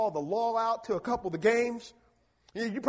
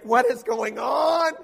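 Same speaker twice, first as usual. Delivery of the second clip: mock shout; 6 dB louder, slower than usual. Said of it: "I just thought".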